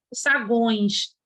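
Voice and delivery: "sagões" with the u sounded, sa-guõis; "sagões" said low as sa-GUÕIS; all vowels pronounced. Shown as a demonstration. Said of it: "são pronunciadas".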